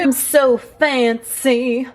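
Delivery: mock fancy. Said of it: "'cause I'm not".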